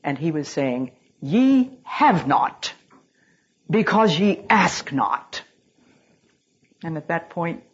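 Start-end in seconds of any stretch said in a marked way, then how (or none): 1.2-5.4 voice of God. Pretend. God's voice speaking to her.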